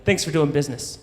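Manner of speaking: plain American accent, lightly imitated; cool, understated American sign-off; perfect American accent. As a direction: drop into a matter-of-fact American accent. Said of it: "in a perfect American accent".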